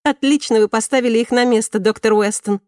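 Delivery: high, loud delighted praise; excited admiration. A narrator's reading. Student praising the doctor's put-down, excitedly.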